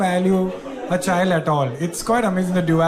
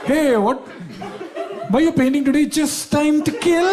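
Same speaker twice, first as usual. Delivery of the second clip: higher-pitched acted small talk, stretched at the end; mock casual chat; 7 semitones higher than usual. Comic mimics everyday chat about painting, higher mock-casual voice. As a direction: pitch it up, then draw out the punchline. Acts out absurd everyday exchange.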